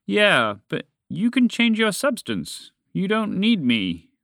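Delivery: high-pitched, emphatic retort. A narrator's reading. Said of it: "the dragon retorted".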